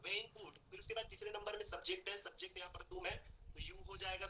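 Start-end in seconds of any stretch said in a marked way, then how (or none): 0.0-0.5 very slow, drawn out words; slow model phrase. Shown as a demonstration. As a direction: stretch each word for the class. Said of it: "when के बाद दो number में could लगाना है". (बहुत धीरे खींचकर बोलना)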